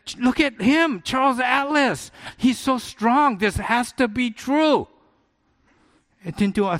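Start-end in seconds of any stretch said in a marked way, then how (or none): 0.1-4.9 gaze up at your hero in wonder; awed young self. Retold or imitated. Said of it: "I said".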